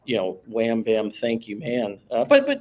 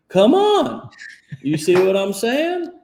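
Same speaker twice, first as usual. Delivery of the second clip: excited; 10 semitones higher, 5 dB louder, slower than usual. Real, not acted.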